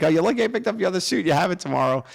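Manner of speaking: high, loud teasing mom voice. Retold or imitated. Mom teasing soaked dad through the window, high and amused. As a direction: needle him like an amused wife.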